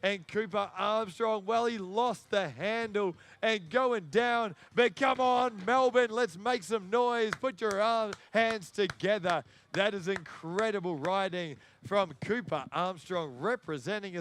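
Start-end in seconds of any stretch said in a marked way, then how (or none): 4.7-9.4 crowd hype. Real, not acted. Hyping the Melbourne crowd.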